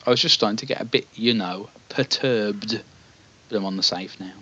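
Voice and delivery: lightly voiced wiry old man; a touch of a feeble old fellow. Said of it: "wiry old man".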